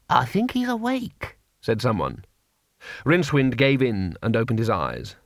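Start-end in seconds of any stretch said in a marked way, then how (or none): 0.1-1.4 put-on higher, slow elderly voice; old wizard voice. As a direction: murmur it like an old don. Wizard voice in story.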